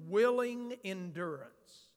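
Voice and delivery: willing leaned on, held a touch longer; willing pressed gently, endurance follows plain; stress on willing. Real, not acted. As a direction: give the word willing weight. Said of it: "I emphasize the word willing".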